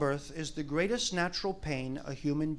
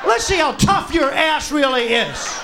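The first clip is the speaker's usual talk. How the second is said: taunting dare; 4 semitones higher, 4 dB louder than usual. Acted. Taunting her at the door.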